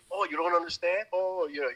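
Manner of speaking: mock a son with put-on hurt; imitated Mexican father. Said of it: "does the impression of his father".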